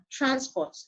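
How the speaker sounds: TRANsport, stressed at the front; "transport" as a noun, weight on "trans"; stress on first syllable. Shown as a demonstration. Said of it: "The first one".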